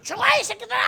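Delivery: 높고 크게 내지르는 욕설; 억지로 회개시키려 윽박지르듯; 욕하는 고함. Retold or imitated. 회개 강요하며 욕하는 목사 흉내. (회개를 강요하는 목사를 흉내 내는 고함)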